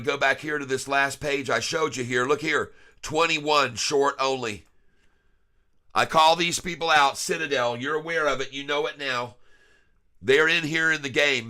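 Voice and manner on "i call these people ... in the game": calling out. Real, not acted. Calling out Citadel.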